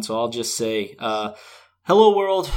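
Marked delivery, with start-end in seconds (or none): 1.8-2.5 toned-down intro. Acted. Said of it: "I shouldn't come at this with big energy".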